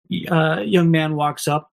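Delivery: normal talking voice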